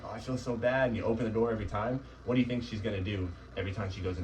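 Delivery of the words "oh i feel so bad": lightly voiced guilty owner, only a touch higher; a hint of the owner who caves in. Trainer mimicking a guilty owner, barely acted. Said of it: "you go to her and you're like".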